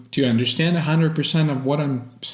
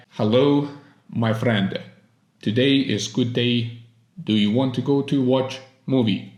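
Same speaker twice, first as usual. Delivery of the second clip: lower, monotone Russian-accented English; emotionless Russian accent; 3 semitones lower than usual. Shown as a demonstration. Russian beginner greeting a friend and suggesting a movie, emotionless Russian accent. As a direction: put on a flat Russian learner's accent, no feeling. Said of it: "We start speaking English with no emotions whatsoever".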